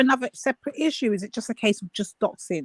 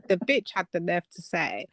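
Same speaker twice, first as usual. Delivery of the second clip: hushed aside; whispering; 3 semitones lower, 6 dB quieter than usual. Real, not acted. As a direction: drop to a whisper.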